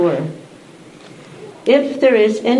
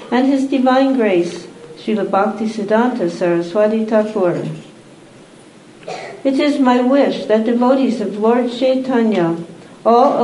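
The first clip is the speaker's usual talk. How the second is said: measured, carefully phrased ceremonial reading; formal recitation to an assembly; formal reading aloud. Acted. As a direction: read out a solemn written dedication, pausing between phrases. Reads a written text aloud.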